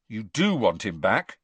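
Harry testing Hermione, sharp; stress on do. Acted. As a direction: do leaned on, sharp rising question. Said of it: "he shot at Hermione".

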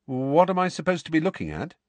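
quick baffled question; baffled Ron. Acted.

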